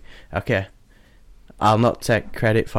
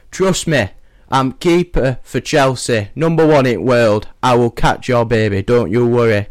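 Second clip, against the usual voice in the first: put-on Yorkshire accent; 4 dB louder than usual. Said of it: "let's pretend he's Yorkshire".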